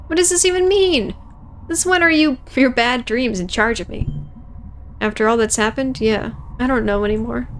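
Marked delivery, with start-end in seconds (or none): 0.1-4.1 high-pitched exasperated challenge; acted exasperation. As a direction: demand an explanation, pitched up. Acted quarrel over bad dreams.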